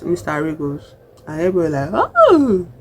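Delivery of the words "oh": high, loud mock-shocked "oh"; shocked crowd gasp. Everybody reacting to the slap, mock shock.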